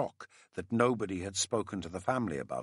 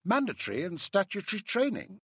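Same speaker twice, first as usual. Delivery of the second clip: raised, high-pitched woman's voice; scornful woman colleague; 10 semitones higher than usual. A narrator's reading. Colleague complains to the narrator about compulsory training, scornful high voice. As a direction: voice a dismissive colleague, pitched well up.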